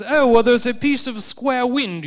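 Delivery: high, loud, slow know-it-all lecturing; a learned fool explaining the obvious; pompous scholar. Retold or imitated. Old scientist explaining square wind, loud, slow, lofty. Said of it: "Doctor Robert Plot's educated hypothesis was".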